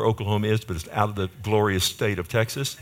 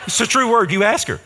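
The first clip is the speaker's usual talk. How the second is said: much higher, louder through laughter; laughing insistence; 9 semitones higher, 5 dB louder than usual. Real, not acted. Preacher laughing as he tells the crowd to ask his wife, laughing. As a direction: laugh while swearing it's true.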